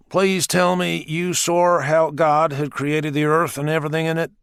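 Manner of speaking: a touch of earnest pleading; pleading question. Acted. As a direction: beg him to confirm it. Richard pleading with Black.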